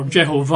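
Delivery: "Jehovah" with the stress on the final -VAH; last-syllable stress. Shown as a demonstration. Preacher showing how they would pronounce it, "Jehovah" stressed on the end. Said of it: "with the emphasis on the last syllable".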